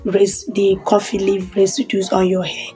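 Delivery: hushed voice during power cut; quiet. Real, not acted. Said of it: "if you hear any noise in background".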